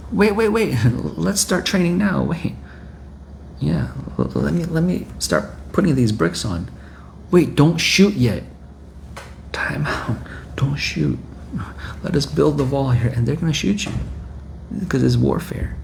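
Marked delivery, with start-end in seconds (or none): 0.1-6.7 high, hurried mock panic; panicked pleading. Panicked defender caught unready. 7.3-13.1 mock begging. Defender begging enemy not to shoot.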